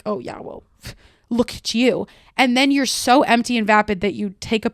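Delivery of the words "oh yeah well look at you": whispered mocking comeback with a laugh; the girl sneering at him from a holier-than-thou view; snide whisper. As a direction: sneer it under your breath, then laugh.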